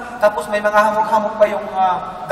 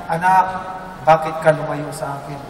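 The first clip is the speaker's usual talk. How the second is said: booming voice of God; 6 semitones lower, 4 dB quieter than usual. Retold or imitated. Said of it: "napakalaking boses".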